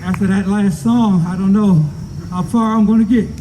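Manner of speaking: muffled behind a mask; speaking through a face mask. Real, not acted. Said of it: "I'm speaking through this, this mask".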